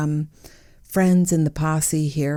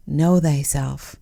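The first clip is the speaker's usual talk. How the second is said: biblical voice. Acted. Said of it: "Why am I talking, like, biblical?".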